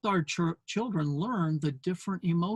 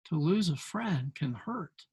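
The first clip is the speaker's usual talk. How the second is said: comforting father; 5 dB quieter than usual. Retold or imitated.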